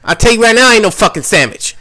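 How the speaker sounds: hammed-up offended inmate; acted indignant insistence. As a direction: insist like your name was insulted. Inmate insists on his name.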